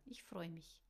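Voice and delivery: whispered, shy and soft. Acted. Kenny shyly saying goodbye to Em, whispered. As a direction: breathe it out shyly.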